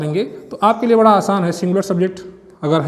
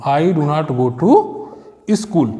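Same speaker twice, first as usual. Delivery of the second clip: slow dictation; 5 semitones lower, much slower than usual. Shown as a demonstration. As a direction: stretch "I do not go to school" out word by word, very slowly. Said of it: "teacher reads finished sentence slowly". ("I do not go to school" को शब्द-शब्द धीरे-धीरे बोलना)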